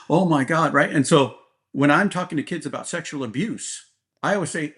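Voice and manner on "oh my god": mock shocked gasp. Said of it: "I'm not gonna go".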